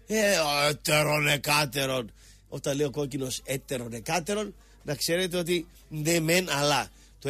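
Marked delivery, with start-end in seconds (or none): 0.1-2.1 slow, put-on evasive voice; mocking the red one. Host mimicking rival dodging the question, slow put-on. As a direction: stretch it out smugly, dodging. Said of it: "κάνει μίμηση τον κόκκινο".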